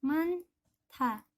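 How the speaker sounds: manta said with the letters run together; linked reading. Shown as a demonstration. Teacher models the joined manta for students. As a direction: model manta as one smooth word. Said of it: "kira-kira bacanya menjadi".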